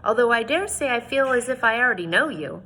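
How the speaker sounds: reading a novel aloud to the class, voicing each speaker; teacher reads the chapter aloud to students, story narration. A narrator's reading.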